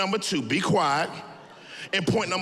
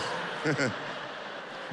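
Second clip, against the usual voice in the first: breathy forced fake chuckle; soft fake laugh for the crowd; 7 semitones lower, 8 dB quieter than usual. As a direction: push out a put-on laugh. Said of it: "that wasn't real".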